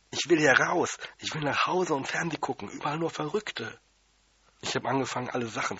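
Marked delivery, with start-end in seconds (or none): 0.1-3.8 hoch und laut brüllen; wütend losbrüllen, dann abfallend; gebrüllt. Retold or imitated. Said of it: "hab gebrüllt". (Junge brüllt genervt los)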